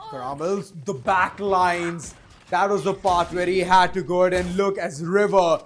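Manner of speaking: punchy live caster; energetic play-by-play. Real, not acted. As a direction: call the attack as it unfolds.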